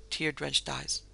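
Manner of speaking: ordinary delivery, nothing marked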